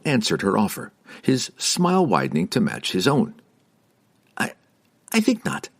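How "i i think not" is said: high smiling wizard; sly amused refusal. Acted. Wizard answering.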